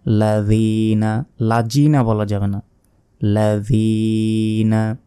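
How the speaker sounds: careful লাযিনা; correct tajweed. Shown as a demonstration. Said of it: "জিহবা বের করে উচ্চারণ করতে হবে".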